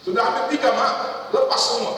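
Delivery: lightly hammed child complaint; mock whiny child. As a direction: whine to mom in a high voice. Child phoning mother with problems.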